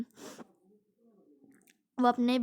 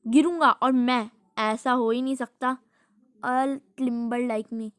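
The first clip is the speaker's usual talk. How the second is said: louder proud dad boasting; boastful dad; 5 dB louder, slower than usual. Retold or imitated. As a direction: brag like a cocky father. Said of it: "dad कहते हैं".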